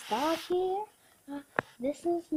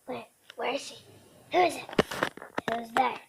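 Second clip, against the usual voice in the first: voicing the dog's thoughts; 3 dB quieter than usual. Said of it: "saying stuff of what I feel like she thinks".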